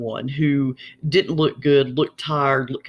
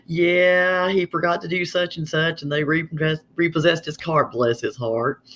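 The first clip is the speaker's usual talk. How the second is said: veiled insult; 2 semitones higher than usual. Acted. Gossiping about his repossessed car, veiled insult. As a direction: gossip with a pitying put-down at the end. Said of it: "that is always the second meaning".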